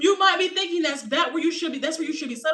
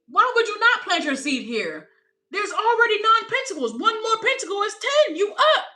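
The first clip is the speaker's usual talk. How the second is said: rising higher and louder toward the punchline; building excitement; 8 semitones higher, 5 dB louder than usual. Real, not acted. Reading the cards for the viewer, climbing excitement. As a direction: count up to ten and land it.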